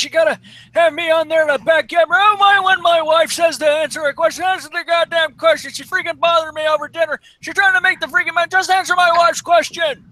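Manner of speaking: put-on high, creaky old lady. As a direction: grumble like a fed-up granny. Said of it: "I thought that was Prankster doing that".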